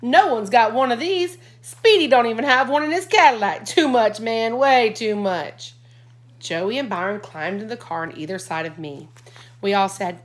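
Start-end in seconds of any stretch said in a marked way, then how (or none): 0.0-5.7 higher, louder thrilled shouting; cool teen losing his cool; excited scream. A narrator's reading. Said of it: "screamed out".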